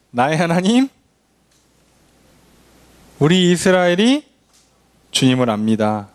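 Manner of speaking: mock desperate prayer, drawn out; pleading prayer. Israelites crying out to God in war, mock pleading prayer. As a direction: beg God like a frightened nation. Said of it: "라고 기도한다는 얘기죠".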